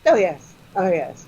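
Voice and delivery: deadpan, matter-of-fact reply; unruffled British understatement; subtle understatement. Retold or imitated. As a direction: toss it off with no surprise at all. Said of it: "more subtle".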